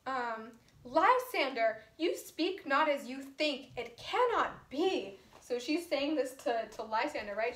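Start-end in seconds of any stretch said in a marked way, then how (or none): 0.8-5.2 disbelief. Acted. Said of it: "with mounting disbelief".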